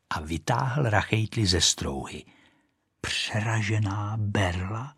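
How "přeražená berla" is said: repeating to herself. Acted. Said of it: "opakovala si Rachejtle".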